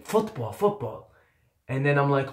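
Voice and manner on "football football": Canadian guys. Retold or imitated. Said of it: "They're saying".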